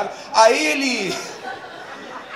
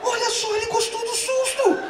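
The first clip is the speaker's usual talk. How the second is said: delighted dad. Retold or imitated.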